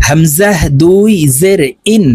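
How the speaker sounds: ইন with the n joined straight onto the vowel; joined nun. Shown as a demonstration. Teacher demonstrating for learners, ইন with joined n. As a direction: close ইন promptly on the n. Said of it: "তাড়াতাড়ি করে নুন যুক্তভাবে পড়তে হবে".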